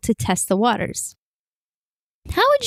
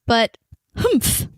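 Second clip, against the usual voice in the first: humph. Acted. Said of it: "She said humph".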